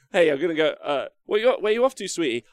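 a hint of a doting partner's voice. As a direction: play the partner, sweetly curious. Acts out partner asking player.

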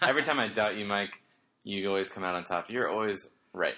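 dry mock praise; sarcastic. Real, not acted. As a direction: say it with heavy sarcasm. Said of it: "sarcasm in there".

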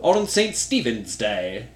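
lightly attempted Irish accent; bad Irish accent. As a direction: have a half-failed go at an Irish lilt. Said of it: "Oh, that is so bad".

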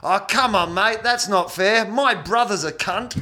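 high-pitched, drawn-out mock heckle; heckler's protest. Heckler interrupting a comic from the back of the room, mock protest. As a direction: call it out like an aggrieved punter. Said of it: "this voice has just come from the back of the room".

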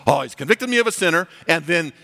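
high-pitched, worked-up complaint; despairing believer. Acted. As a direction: wail in mock despair that it's hopeless. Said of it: "But we think".

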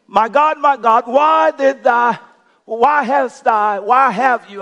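imitating an anguished cry in drawn-out words; crying out loud. Preacher voicing Jesus's prayer from the cross, acted loud cry. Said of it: "in a loud voice".

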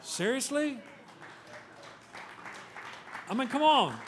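high, forceful, incredulous challenge; exasperated rebuke. Acted. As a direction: confront them, punching the key words.

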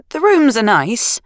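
slow, rising, grudging "rooms"; grudging agreement. Acted. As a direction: concede it reluctantly, drawing it out. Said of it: "Sarah agreed".

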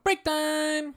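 high, loud call of break time; excited announcer. Acted. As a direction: announce it like a radio host.

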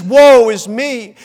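slow, drawn-out lament, mildly voiced; retold grief. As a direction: stretch "Woe" as a quoted lament. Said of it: "He's describing the grief that he's feeling".

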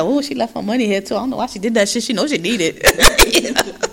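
absent-minded mimicry; Jocelyn. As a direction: imitate someone musing aloud, mind elsewhere. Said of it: "she said that shit, like, so absent-minded".

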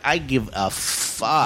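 slow, low unbothered mutter; deadpan indifference. Retold or imitated. Standing beside the rich women, slow and uncaring.

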